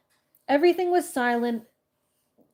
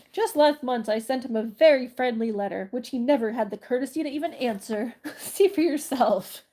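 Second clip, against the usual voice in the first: indignant magician; 3 dB louder than usual. Acted. Rereading magician's line.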